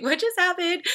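high-pitched baffled reaction; retold bewilderment. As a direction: act out being completely thrown. Retells her own bewildered reaction.

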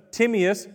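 Timaeus said as TIM-ee-us; alternative pronunciation. Shown as a demonstration. Preacher tries out a name for the congregation, Timaeus as TIM-ee-us. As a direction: say Timaeus with a short first syllable, TIM-ee-us. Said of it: "however you want to say it".

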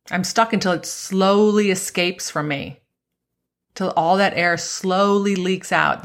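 slow, stretched-out words; drawn-out waiting. Acted. Golfer stuck waiting for the balloon to deflate, drawn-out. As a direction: draw out "slowly" like a gradual leak.

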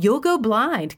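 high, whiny mimicry of her warning; mocking imitation. Husband throwing her warning back, whiny mimicry. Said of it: "he mocked".

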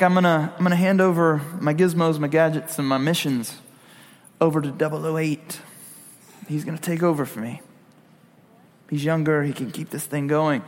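low, quiet mock English accent; lightly played English spy handing over the job. Retiring double oh seven passes his gadgets on, low mock English accent. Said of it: "but with an English accent".

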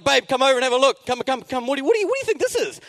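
high, hurried call to wife; frantic, high-pitched summons; urgent call. Acted. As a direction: call babe over in a rising panic. Urgently calling wife over.

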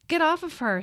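high desperate yell. A narrator's reading. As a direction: scream it from the crowd. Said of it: "she heard Katrina yell".

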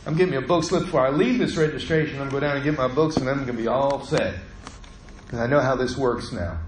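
fast, self-assured, matter-of-fact; calmly sure of the process now; confident plan. Retold or imitated. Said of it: "Instead, I went".

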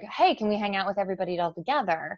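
light, quick and friendly; cheerful casual ask; upbeat request. Shown as a demonstration. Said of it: "You have to actually be like".

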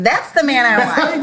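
retold delighted cry, pitched high through a laugh; delighted exclamation. Friend retelling her praise of her husband, delighted. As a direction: exclaim it high, amused and admiring.

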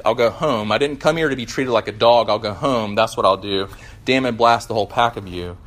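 defiant ghost, lightly voiced; sulky ghost. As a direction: threaten to leave, sulking. Ghost refuses the bright man.

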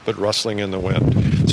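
talking outside in gusty wind; wind on mic. Real, not acted. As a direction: wind blowing across the mic outdoors. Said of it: "wind noise".

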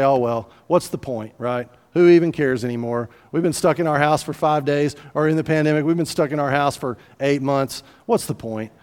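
mock resigned shrug in the voice; throwing up hands. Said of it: "we throw up our hands".

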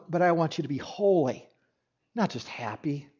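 gentle Jesus voice. Retold or imitated. Preacher voicing Jesus to stuck people, soft and hushed. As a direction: speak it softly as a tender rebuke.

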